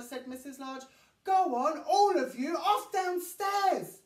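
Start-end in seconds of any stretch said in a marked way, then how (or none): 1.2-4.0 louder, slowing at the end; shooing. A narrator's reading. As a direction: send them off firmly. Mother shoos children away.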